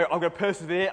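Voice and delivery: rising, mock-heroic resolve; mock determination. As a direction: psych yourself up to keep eating, loudly. Student forcing down more cheesecake.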